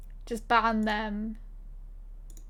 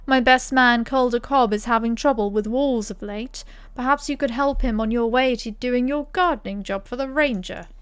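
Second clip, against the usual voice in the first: louder, booming camp captain giving orders; hearty captain voice; 5 dB louder than usual. Acted. Player voicing the captain to the hero, booming. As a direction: play the gruff host welcoming a helper.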